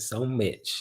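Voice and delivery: light country twang; country accent. Pretend. Streamer showing viewers her twang, light country accent. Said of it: "And got the country accent".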